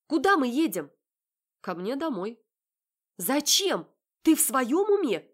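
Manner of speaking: high, loud indignant questions; flaring up. Acted. Heroine flaring up at Marat in the car, indignant. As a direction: flare up at him. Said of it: "вспыхиваю я".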